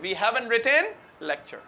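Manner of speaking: "haven't" with no t sound; "we haven't written" with the t dropped; silent t. Shown as a demonstration. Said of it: "haven't कभी टी silent".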